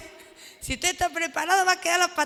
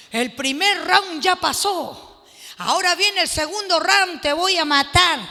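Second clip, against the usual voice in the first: retold threat; 4 dB louder than usual. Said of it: "le habían gritado".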